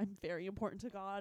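tearing-up voice. Retelling what Lisa said while tearing up: imitating someone tearing up. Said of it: "she's, like, tearing up, and she's like".

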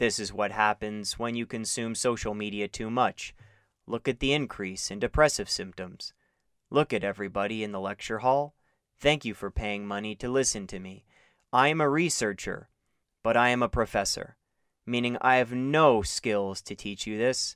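flat, deadpan, low, quiet monotone professor drone. Imagining lecturing paying students with graphs and charts: monotone lecture voice. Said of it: "speak in a monotone voice".

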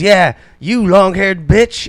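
mock high-pitched yelling. Telling a story about a homeless man outside, retelling a man's yell. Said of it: "he's yelling at the top of his lungs".

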